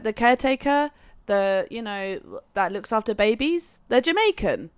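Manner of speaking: lightly put-on Jamaican accent; mock Jamaican accent, amused; imitated Jamaican accent. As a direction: explain it with a touch of Jamaican accent. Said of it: "a very thick Jamaican accent".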